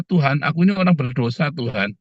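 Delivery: a hint of a contrite tax collector praying; humble sinner's prayer. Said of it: "si pemungut cukai itu berdoa".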